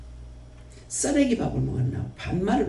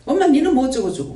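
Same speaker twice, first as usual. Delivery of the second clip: louder, higher mocking of rude talk to mother; mock rude shout; 6 semitones higher, 5 dB louder, faster than usual. Preacher mimics a daughter-in-law calling her mother-in-law 니, mocking and louder. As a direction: sneer it out like a brash daughter-in-law.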